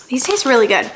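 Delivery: whispered "these taste really good"; whispering. Real, not acted. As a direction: whisper it close to the mic. Whispered verdict on grapes.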